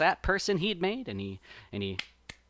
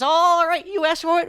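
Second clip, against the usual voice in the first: higher, louder cartoon rabbit warning; rabbit threat; 12 semitones higher, 9 dB louder than usual. A narrator's reading. Brer Rabbit warns the sap person before punching, loud. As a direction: wind up and announce the punch. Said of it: "He says".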